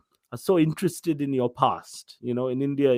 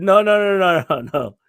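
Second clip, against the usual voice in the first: hammed-up host insisting, louder; insistent host; 5 dB louder than usual. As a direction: refuse to take no for an answer. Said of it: "He said".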